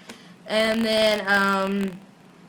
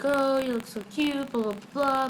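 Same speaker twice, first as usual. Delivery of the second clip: higher, softer mock gushing; mock cooing; 4 semitones higher, 6 dB quieter than usual. Vlogger imitating necklace scene upstairs, mock cooing. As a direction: imitate a sweet compliment, dismissively.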